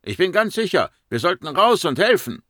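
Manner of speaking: high, urgent cry; alarmed high-pitched call. Acted. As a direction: urge everyone out to help. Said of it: "rief jemand".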